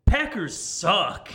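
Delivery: drawn-out mock yell; retold yell. Retelling a blurt at a Packers fan, mild yell. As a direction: blurt it out slowly, a half yell. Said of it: "turned to my left and yelled at him".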